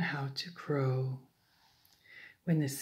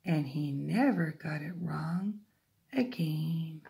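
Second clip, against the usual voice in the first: usual speaking voice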